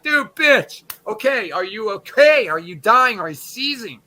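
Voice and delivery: hammed-up shout at her to snap out of it; a partner hollering at her hysterical laughing; mock yell at wife. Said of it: "I wanna slap her right now and be like".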